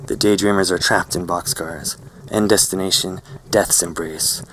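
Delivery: emphatic recital from a book; reading aloud. A narrator's reading. Narrator reciting lines from a book, reading aloud. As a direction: declaim the lines to listeners. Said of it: "read a few lines aloud".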